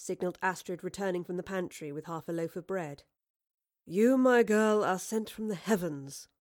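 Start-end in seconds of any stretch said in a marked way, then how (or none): 3.9-6.3 loud opening easing off into a purr. A narrator's reading. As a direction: purr with grateful flattery. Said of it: "Marlowe purred".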